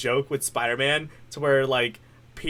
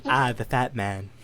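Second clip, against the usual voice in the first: slow, lowered cartoon baby voice; Stewie Griffin; 4 semitones lower, 4 dB quieter than usual. Cartoon baby sizing up his father, slow lowered impression. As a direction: drawl it low, like a haughty cartoon baby. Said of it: "do a little bit of Stewie".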